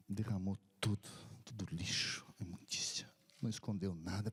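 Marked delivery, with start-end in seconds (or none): 1.4-3.1 breathy hush over a sinner's secret confession; hushed whisper. A narrator's reading. Pastor retelling a dying man's confession, whispered. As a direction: whisper it, as if the confession is too heavy to say aloud. Man pouring out confession in tears.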